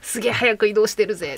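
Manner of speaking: a hint of a kid too excited to sleep; excited child. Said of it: "眠れない子供と一緒でした".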